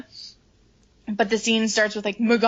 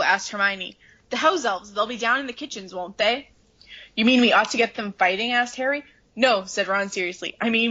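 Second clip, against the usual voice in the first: brisk read-aloud with voiced lines; story reading. Reading the Ron and Hermione scene aloud, lightly voiced. Reads book passage aloud.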